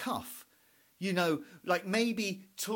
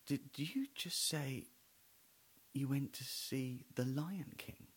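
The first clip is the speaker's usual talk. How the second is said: confused wife; 3 semitones lower, 9 dB quieter than usual. Retold or imitated. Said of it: "a bit confused".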